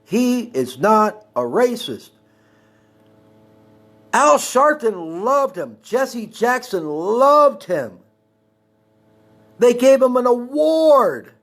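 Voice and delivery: slow, high, emphatic insistence; indignant defense. Real, not acted. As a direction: stretch the key words in high-pitched protest. Heated defense of the president.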